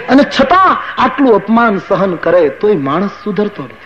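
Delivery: chuckling through the words; amused laugh. Real, not acted. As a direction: laugh gently at human stubbornness. Laughing remark on stubborn men. (હળવું હસતાં)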